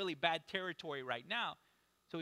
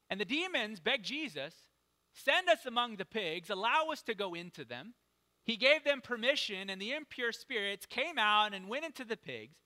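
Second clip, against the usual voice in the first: emphatic public reading of scripture; 2 semitones higher, 3 dB louder than usual. Acted. Preacher reading a Bible story to the congregation, emphatic scripture reading. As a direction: read it out with strong, punched key words. Reads the Bible passage aloud.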